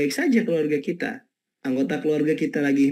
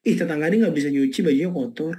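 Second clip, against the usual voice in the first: grumbling; faster than usual. Retold or imitated. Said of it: "dia ngomel".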